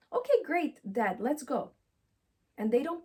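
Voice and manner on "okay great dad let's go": put-on eager child. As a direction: chirp it like a keen kid. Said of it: "they will support me".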